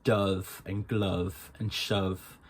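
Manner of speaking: "Dove", "glove" and "shove" said slowly with a rounded "o"; Irish vowel. Shown as a demonstration. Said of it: "only be in stressed sounds".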